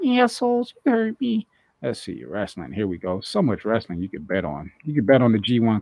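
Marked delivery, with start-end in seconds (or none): 0.1-1.5 higher, louder jab; mock outburst. Real, not acted. Host cursing the betting site, higher and louder. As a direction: fling it at the bookie. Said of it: "you assholes".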